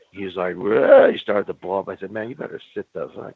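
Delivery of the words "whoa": loud, higher startled whoa; hammed-up boss blowing up; mock outburst. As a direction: let it burst out like the boss blowing up. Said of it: "he swelled up".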